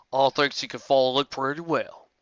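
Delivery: breathy murmured remark; whispered aside. Acted. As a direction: say it under your breath. Big Mac murmuring aside.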